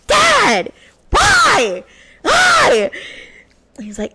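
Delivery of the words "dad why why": very high, loud whining cry of protest; whiny protest. Retold or imitated. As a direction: wail at dad like a kid denied.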